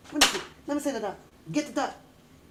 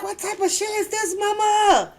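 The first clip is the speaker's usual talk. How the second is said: put-on indignant kid; 8 semitones higher than usual. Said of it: "I be like".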